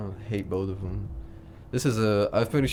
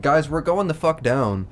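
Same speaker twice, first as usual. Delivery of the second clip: mock panic; 6 semitones higher, 5 dB louder than usual. Acting out a crashing plane.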